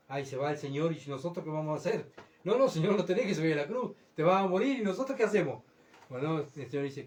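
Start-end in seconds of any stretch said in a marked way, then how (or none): 0.1-5.6 mock whiny panic, "what will we do"; worried Peter. Peter frets to the Lord about being left behind, a touch of whining. Peter voiced worrying aloud.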